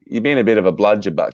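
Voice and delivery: native Aussie phrase, given for copying; Australian model. Shown as a demonstration. Tutor teaching the host slang, native Australian accent. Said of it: "what was the last one?".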